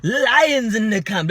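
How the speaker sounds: high, loud, drawn-out yell imitating a hype chant; mock yelled war cry. Podcast host mocking a boxer's camp slogan, yelled. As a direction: stretch LIONS into an imitated battle cry. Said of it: "and then yell".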